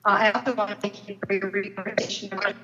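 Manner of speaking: choppy, breaking-up call audio; bad connection. Real, not acted. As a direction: voice cutting in and out. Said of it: "You're breaking up a little".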